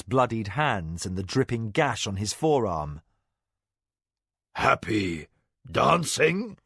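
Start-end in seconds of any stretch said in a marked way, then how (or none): 4.5-6.6 puzzled. A narrator's reading. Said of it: "he quoted, puzzled".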